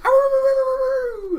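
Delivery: long high wavering wail; loud mock scream, drawn out; imitated screaming. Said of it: "you hear noises like".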